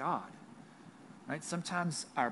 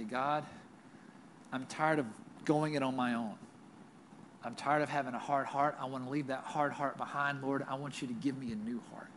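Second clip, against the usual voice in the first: a lightly voiced, heartfelt repentance prayer; gentle prayer; 3 semitones lower than usual.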